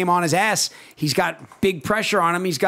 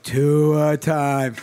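tua hype; 3 semitones lower than usual. Acted. Dolphins fan hyping Tua.

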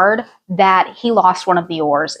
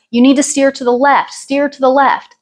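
retold yell; 5 semitones higher than usual. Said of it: "yell to us".

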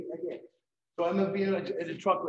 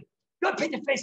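teasing jab; 10 semitones higher, 7 dB louder than usual. Retold or imitated. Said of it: "he went like this".

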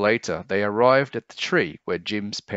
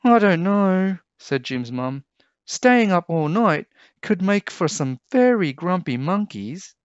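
high, loud cooing mother voice; fond mother squealing with joy; doting mum; 10 semitones higher, 5 dB louder than usual. A narrator's reading. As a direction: gush over her little one.

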